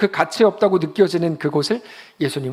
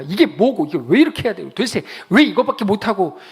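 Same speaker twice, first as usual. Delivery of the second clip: higher, louder whiny grumbling; mock complaining; 5 semitones higher, 6 dB louder than usual. Preacher mocking a complaining churchgoer, whiny loud gripe. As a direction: mimic a griping believer, loud and high. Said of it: "그거는 성도가 할 말이 아니에요".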